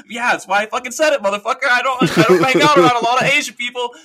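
high-pitched, hammed-up comic outburst; retold comedy bit. Retelling a stand-up bit, high comic outburst. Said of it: "he does this bit".

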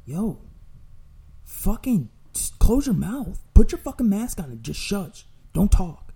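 high, loud, fed up; retold yelling. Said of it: "And I'm like".

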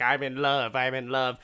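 lightly acted giddy lovestruck declaration; playful imitation of an excited old man; mock excited. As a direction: retell it as if bursting with new love. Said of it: "he just gets all excited".

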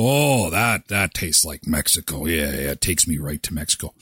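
dreamy mock sigh of bliss; tequila drinker. Host imitating someone after a tequila shot, low and dreamy. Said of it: "and you go".

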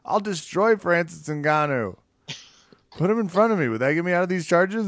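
cocky fighter boast. Retold or imitated. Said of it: "is like".

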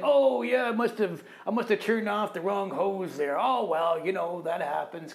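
high, breezy mock shrug-off; hammed-up careless coworker voice; dismissive brush-off. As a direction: brush it off like it's nothing. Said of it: "washing it away".

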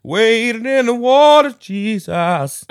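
high, loud, slow disbelief; incredulous. Real, not acted. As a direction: exclaim in disbelief. Disbelief at character's choice.

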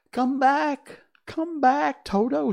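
high, loud calling after them. Acted. Woodman calling after fleeing mice, loud high call. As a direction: call the scattered mice back.

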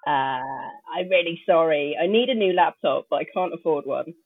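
crackly, distorted laptop mic; speaking through crunchy, broken audio. Real, not acted. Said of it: "apologize for my crunchy, uh, audio".

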